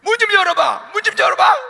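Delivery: high, loud pounding demand; loud angry mother; mother yelling. Acted. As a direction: shout through the door at the child. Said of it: "엄마가 뭐라 그래요".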